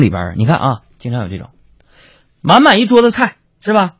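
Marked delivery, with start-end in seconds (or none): 2.4-3.9 brisk, higher crosstalk-style listing of dishes; lightly hammed-up xiangsheng patter; mock dish-name recital. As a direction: rattle off the menu like a crosstalk performer.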